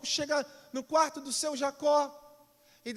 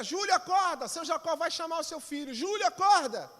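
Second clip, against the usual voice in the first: a moderate higher call up the stairs; 5 semitones higher than usual. Acted. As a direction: wake him, not too hard. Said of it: "dona Joana grita".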